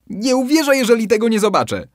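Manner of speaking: high, loud, fast dare; loud challenge. Acted. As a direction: challenge him, loudly and quickly. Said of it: "dodał".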